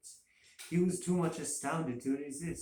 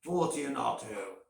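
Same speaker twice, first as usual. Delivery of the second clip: calling again; 4 dB louder than usual. A narrator's reading. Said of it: "I called again".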